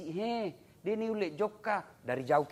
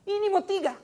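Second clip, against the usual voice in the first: ordinary delivery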